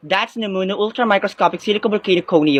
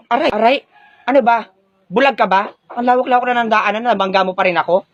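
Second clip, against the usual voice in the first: angry scolding; 3 semitones higher than usual. Acted. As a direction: snap at the clumsy one. Bumped girl scolds. (galit na pagsita)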